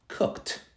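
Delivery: COOKED in one syllable with a sharp k-t close; t ending. Shown as a demonstration. Teacher contrasting three endings, t ending. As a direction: finish COOKED on a voiceless t. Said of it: "I pronounce the E D differently".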